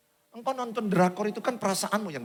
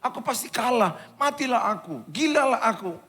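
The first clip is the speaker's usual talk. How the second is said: somewhat raised, helpless self-talk; acted anxious despair; 3 semitones higher than usual. Preacher voices an anxious person unable to face problems, mildly despairing. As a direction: voice mild panic, as if giving up. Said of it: "Perasaannya gelisah".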